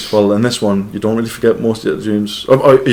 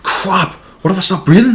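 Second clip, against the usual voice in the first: mock panic; 9 semitones higher than usual. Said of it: "sometimes you're like".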